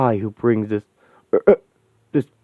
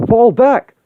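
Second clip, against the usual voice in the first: higher, louder insistent repeat; repeated shouted order; 13 semitones higher, 7 dB louder than usual. Acted. Cap repeats his order to a team that ignores him, louder. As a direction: snap it again because nobody listened. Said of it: "I said".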